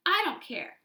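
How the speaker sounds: high loud cry. A narrator's reading. Dana crying out at Missus Jewls, high and loud. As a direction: cry out in frustration. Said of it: "cried Dana".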